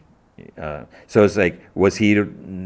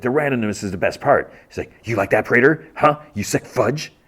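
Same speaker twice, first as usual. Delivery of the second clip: higher-pitched mock cockiness; cocky; 5 semitones higher than usual. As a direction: imitate a cocky taunt at the mirror. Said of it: "cocky attitude".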